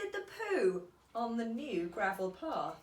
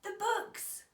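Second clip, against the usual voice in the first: high, loud upset cry; a boy crying out in dismay; child's cry; 12 semitones higher, 5 dB louder than usual. A narrator's reading. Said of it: "cried Peter".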